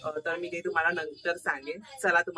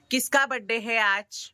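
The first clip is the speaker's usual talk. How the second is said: coaxing in Hindi; 7 semitones higher than usual. Real, not acted. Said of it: "Hindi तो तेरे को समझ में आएगा ही".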